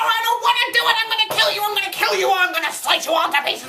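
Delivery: high tearful screaming threats; sob-yell the threats at everyone; crying rage. Acted. Critic breaking down and screaming threats at viewers.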